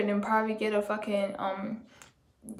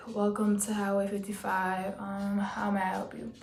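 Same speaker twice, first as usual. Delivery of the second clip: her laid-back phone greeting; 6 dB quieter than usual. Shown as a demonstration. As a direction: answer the phone relaxed, no added cheer. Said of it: "I was just like this".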